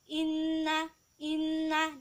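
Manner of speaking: "Inna" with hummed n and short final a; dibaca pendek. Shown as a demonstration. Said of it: "dibaca pendek". ("Inna" dengan na pendek)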